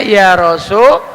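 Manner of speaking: RASULULLAH split with a pause, Rasu... LA-llah; correct fathah reading. Shown as a demonstration. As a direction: say "Rasulullah" in two parts, second starting LA. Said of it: "Jadi bacanya".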